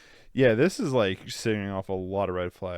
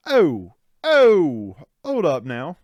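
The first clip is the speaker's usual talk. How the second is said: mock alarm; 6 semitones higher, 9 dB louder, much slower than usual. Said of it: "And it's like".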